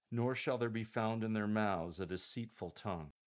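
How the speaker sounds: "nor shall there be found" through "deceitful tongue" without pauses; straight through, unbroken. Shown as a demonstration. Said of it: "straight through without any pauses".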